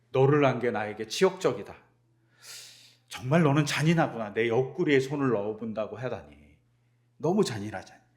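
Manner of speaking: a touch of hurt anger in each line; angry rebuke. Pretend. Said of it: "막 화를 내셨을까요".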